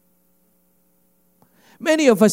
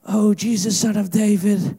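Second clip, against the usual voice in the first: higher, acted plea; imagined crying out; 3 semitones higher than usual. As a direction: call out to Jesus as the beggar. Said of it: "Just do some imagination with me".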